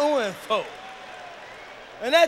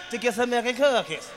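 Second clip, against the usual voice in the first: imitating the kid. Comedian mimicking the boy repeating his answer, lightly voiced. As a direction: mimic the boy's reply a second time. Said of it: "I wanted to hear him say it again".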